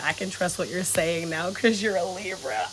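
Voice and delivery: slow airy whisper, reading it out; whispered comment. Retold or imitated. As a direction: hush it like sharing a secret. Reading a viewer's comment aloud.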